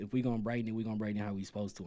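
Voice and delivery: ordinary talk, nothing marked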